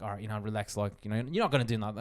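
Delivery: low, soft, under the breath; retold calming self-talk. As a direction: talk yourself down quietly. Talking himself down to calm.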